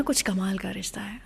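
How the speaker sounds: breathy awed aside; hushed whisper. Real, not acted. Radio host marvelling at Saira and Dilip's bond, whispered. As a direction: whisper it like a secret.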